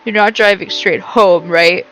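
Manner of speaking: blocked-nose voice; stuffy nose voice. Pretend. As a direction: sound congested and suspicious. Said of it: "trying to sound stuffy".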